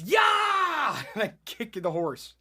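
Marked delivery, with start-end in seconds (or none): 0.0-1.0 loud, high cowboy holler; big drawn-out "YAH!"; yelled "yah". Retold or imitated. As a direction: yell it out like spurring a horse. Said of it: "You yell".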